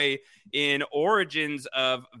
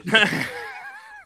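sudden squealing laugh; high burst of laughter. Real, not acted.

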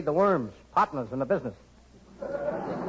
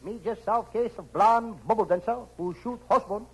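high, pidgin detective voice; Charlie Chan; 4 semitones higher than usual. Acted. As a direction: play the famous detective, pitched up. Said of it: "Me, Charlie Chan".

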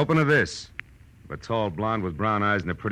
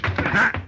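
triumphant ha; 11 semitones higher, 3 dB louder than usual. Acted. Detective turns the tables.

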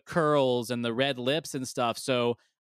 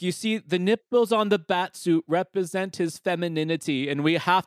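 pompous mock director voice, fast and louder; 5 semitones higher, 5 dB louder than usual. Co-host mocks Joel Schumacher's pretentious explanation, pompous and fast. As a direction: ham up a self-serious filmmaker explaining. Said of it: "He's like".

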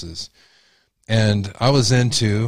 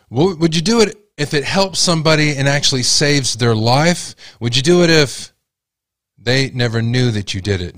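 impassioned question; 5 semitones higher than usual. Real, not acted. Escalating rhetorical questions.

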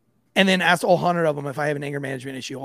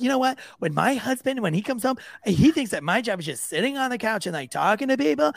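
mock confiding counselor; 5 semitones higher than usual. Counselor confides about husband.

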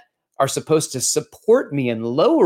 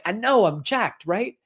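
mock bragging; 8 semitones higher than usual. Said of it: "And I was like".

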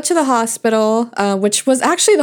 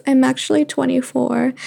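self pitying whine. Retold or imitated. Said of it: "said in the most pathetic voice".

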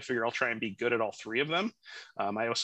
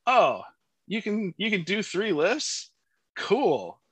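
excited; 7 semitones higher, 4 dB louder than usual. Retold or imitated. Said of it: "I was like".

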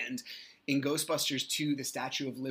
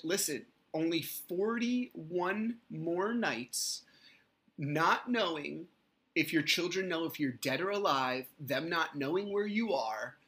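higher, slow and pointed; biting sarcasm; 5 semitones higher, 4 dB louder than usual. Retold or imitated. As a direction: spell out every word to sting. Sarcastic message to ex.

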